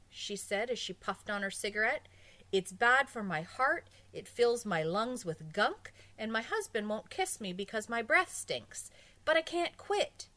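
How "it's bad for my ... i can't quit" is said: higher, louder complaining woman; smoking woman. Acted. Woman pleading to psychiatrist, higher and louder. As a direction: whine it out like a hopeless smoker.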